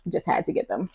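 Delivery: soft murmured repeat; quiet echo. Real, not acted. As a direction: drop to a soft aside. Quiet echo of previous line.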